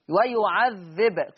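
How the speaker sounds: slow "ويعذب" ending on a bouncing b; still baa. Shown as a demonstration. Teacher showing Warsh's sukun, slow "ويعذب" on a bounced b. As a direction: close "ويعذب" with an echoed b, no full vowel. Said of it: "يقرأ بسكون الباء".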